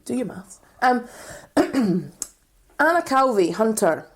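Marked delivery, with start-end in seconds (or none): 0.0-0.6 whispered aside; whispering. Real, not acted. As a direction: hiss it under your breath.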